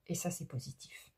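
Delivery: a whispered aside, voice dropped right down. Real, not acted. Reader to viewer, whispered reassurance. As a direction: whisper the good news like a little secret. Upbeat aside after change card.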